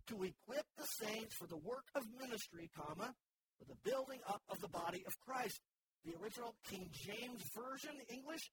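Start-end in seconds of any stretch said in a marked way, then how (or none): 0.1-5.6 scripture reading. Shown as a demonstration. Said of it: "The E S V in verse twelve reads".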